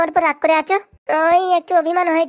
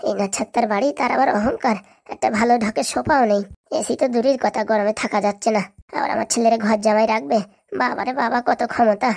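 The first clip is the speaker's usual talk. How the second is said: low-pitched, disdainful griping to oneself; scornful grumbling; 4 semitones lower than usual. Acted. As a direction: grumble sourly under a lowered pitch. Grumbling alone about the in-laws' house. (নিচু স্বরে তাচ্ছিল্যভরা গজগজ)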